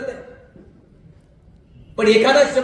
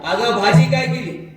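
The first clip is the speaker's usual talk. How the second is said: yelled into ear; 4 dB louder than usual. Retold or imitated. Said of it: "जोरात कानात ओरडला".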